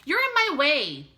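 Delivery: loud annoyed little brother; said loudly. A narrator's reading. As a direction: shove the words at his sister. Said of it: "Bat said loudly".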